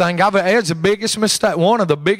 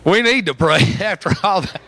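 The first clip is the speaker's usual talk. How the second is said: laughing. Real, not acted. Preacher giggling to the church after the joke. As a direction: pray said through a laugh.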